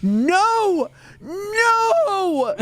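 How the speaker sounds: high loud wailing no; scared child cry. Retold or imitated. Boy fleeing the ghost-detecting Alexa, high wail. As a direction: squeal it like a terrified kid. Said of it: "he was like".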